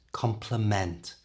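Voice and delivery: "Complement" with extra weight on a full final MENT; stress at end. Shown as a demonstration. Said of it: "has more stress at the end".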